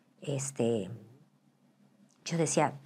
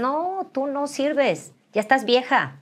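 a lightly voiced hater, higher and louder; mocking critics; 5 semitones higher, 4 dB louder than usual. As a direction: sneer at her age like a hater. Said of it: "Me decían".

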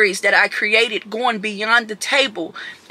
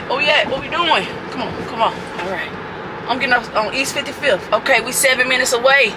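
ordinary talk, nothing marked

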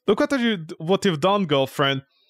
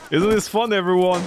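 bright sarcastic cheer to audience; forced cheerful. Real, not acted. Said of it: "so much fun".

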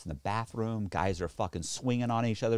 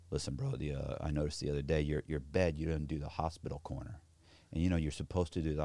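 lower, softer, hesitant correction; mock meek inmate; 8 semitones lower, 8 dB quieter than usual. Inmate scolding Cox about bed corners, mock meek mumble. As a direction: nervously point out the hospital corner.

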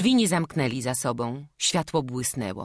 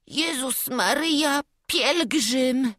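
high, horrified exclamation; terrified cry; 10 semitones higher, 4 dB louder, slower than usual. Acted. The boy recognising the pilgrim, crying out in fright. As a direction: gasp it out in sudden terror.

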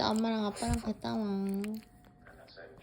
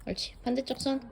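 talking to a dog; 4 semitones higher, faster than usual. Real, not acted. Praising the dog.

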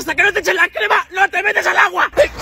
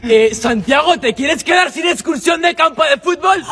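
scolding teacher. Acted. Teacher threatens pupil.

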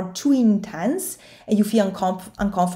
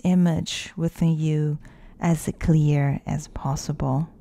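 guided meditation. Acted. Coach leading listeners through facing their fear, guided meditation. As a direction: guide the listener inward, unhurried, leaving space to breathe.

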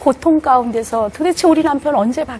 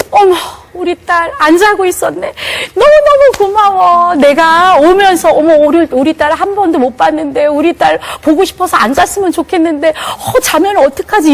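sweet doting mother; 5 semitones higher, 3 dB louder than usual. Retold or imitated. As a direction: coo lovingly at the child. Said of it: "어떻게 제가 이제 바뀌어지냐면은". (늦게 들어온 엄마가 딸에게, 다정하게 감탄하며)

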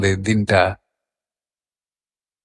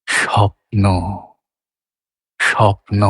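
স্বপ্ন on gentle notes, ন placed a little under the first syllable; soft notes; 2 semitones lower than usual. Shown as a demonstration. Teacher demonstrating komal notes on both syllables, soft notes. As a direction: say স্বপ্ন softly rounded, with a gap before a held ন. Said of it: "আর সবটা পুরোপুরি কোমলে".

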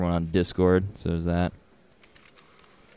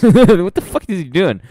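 laughing disbelief; 9 semitones higher, 6 dB louder than usual. Real, not acted. Laughing at odd character.

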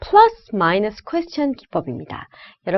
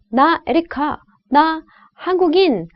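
each noun left hanging high, no verb ending; choppy rapper-like phrases; 5 semitones higher than usual. Shown as a demonstration. Teacher shows sentences missing their verb, rapper-like chopped delivery. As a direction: chop it into punchy beats like a rapper. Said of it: "래퍼가 말하는 것처럼".

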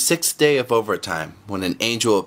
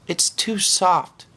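slow, higher sighing complaint; 9 semitones higher, much slower than usual. Acted. Angel circling the model mother, slow higher sigh. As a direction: let it out on a sigh, slowly. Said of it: "he sighed".

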